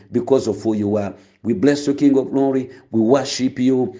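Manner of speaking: measured, reverent prayer voice. Acted. Pastor praying over his listeners, reverent and steady. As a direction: pray it steadily before the congregation.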